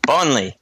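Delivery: "Bonley" with an L, as mock New Zealand; New Zealand pronunciation. Shown as a demonstration. Co-host copies the host, "Bonley" in mock New Zealand pronunciation. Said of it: "How was that?".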